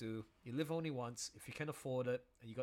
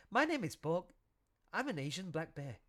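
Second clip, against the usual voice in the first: a touch louder bear intro; lightly voiced bear; 4 semitones higher, 4 dB louder than usual. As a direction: present the bear proudly. Trying out bear character voice.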